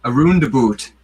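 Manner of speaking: "roundabout" with mock-Canadian oo; Canadian vowel. Shown as a demonstration. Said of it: "Andrew wants us to do Canadian".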